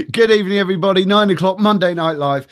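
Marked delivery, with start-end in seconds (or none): none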